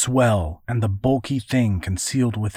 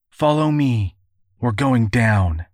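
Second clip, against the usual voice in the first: urgent call; 5 dB louder than usual. Acted. Calling over the danger.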